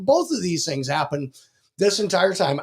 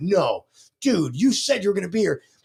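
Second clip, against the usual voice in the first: put-on angry voice. Retelling own reply on the phone, retelling being mad. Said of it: "I was mad 'cause I'm like".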